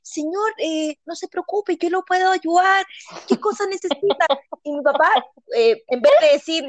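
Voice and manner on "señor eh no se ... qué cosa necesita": calm him like a patient; soothing shop lady. Retold or imitated. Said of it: "lo agarra de la mano".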